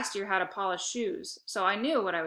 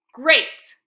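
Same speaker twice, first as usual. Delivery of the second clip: loud, higher forced cheer; forced enthusiasm; 5 semitones higher, 13 dB louder than usual. A narrator's reading. Boy covering a wheeze with a loud "Great!". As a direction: fake it cheerfully through a cough. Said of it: "I stifled a cough and a wheeze".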